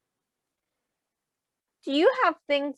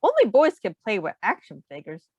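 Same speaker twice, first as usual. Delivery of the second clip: put-on louder, bossy boy; lightly voiced bossy boy; Xavier dismissive; 3 dB louder than usual. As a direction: challenge her like a proud boy. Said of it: "replied Xavier".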